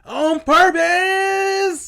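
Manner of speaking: high, drawn-out disbelief; incredulous. Real, not acted. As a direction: stretch it out, can't believe it. Incredulous echo of partner's claim.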